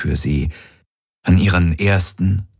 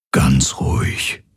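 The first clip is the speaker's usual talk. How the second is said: whisper; 5 semitones lower, slower than usual. A narrator's reading. Hawks soothing the restrained Garland in a whisper. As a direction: breathe it out gently. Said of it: "flüsterte er".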